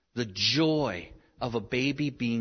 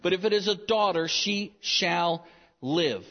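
a hint of a cold king decreeing; pharaoh's command; 6 semitones higher than usual. Preacher voicing the pharaoh's order to midwives, lightly commanding. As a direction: read the decree like a stern ruler. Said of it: "He says".

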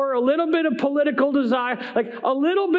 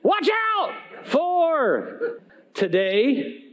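laughing; 4 semitones higher, much slower than usual. Real, not acted. Laughing while reading title.

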